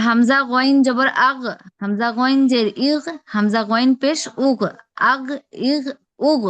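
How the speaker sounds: গইন with a voiced throat gh, আগ ইগ উগ closing on g; Arabic ghain. Shown as a demonstration. Teacher showing the student the ghain sound. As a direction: recite ghain slowly, gh rasped from the throat. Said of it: "এরকম হবে।".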